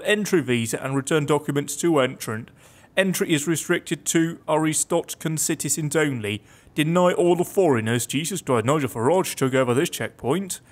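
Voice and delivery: normal talking voice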